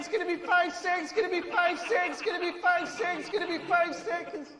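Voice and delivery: rising countdown, then stuck on five seconds; download bar countdown. Retold or imitated. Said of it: "like the internet download bar".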